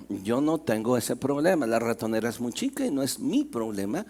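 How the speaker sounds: dismissive cow. Acted. Cow dismisses the mouse, low and offhand.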